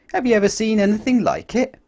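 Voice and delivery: high and loud, full of wonder; amazed question. A narrator's reading. Reading to a child, amazed at the stamp. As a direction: ask it wide-eyed. Narrator asks listener in wonder.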